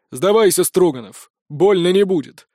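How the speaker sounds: loud commanding voice, metallic and crackling; metallic distorted voice. A narrator's reading. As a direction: bark the order like a glitchy machine. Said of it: "скомандовал металлический голос, почему-то искажённый помехами".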